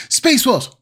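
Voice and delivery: high howled wolf cry. Acted. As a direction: howl it out, wolf-style. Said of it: "I'll try that again".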